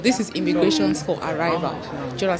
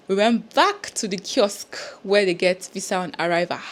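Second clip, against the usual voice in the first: whispered aside. Real, not acted. Hushed aside to viewers.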